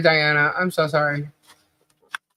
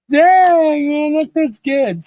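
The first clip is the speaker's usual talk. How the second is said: loopy bliss; 7 semitones higher, much slower than usual. Retold or imitated. Patient retelling the Benadryl rush, high and dreamy. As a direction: savor it like a drug rush. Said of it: "laughing all loopy and everything".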